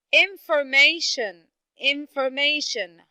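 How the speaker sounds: high information with IN and MA stressed; stress on first and third syllables. Shown as a demonstration. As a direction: lean on "in" and "ma" in information. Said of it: "I have the first syllable".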